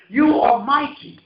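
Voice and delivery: the eagle crowning the eaglet, slow and loud; slow, loud declaration. Acted. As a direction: stretch out every word, voice cracking.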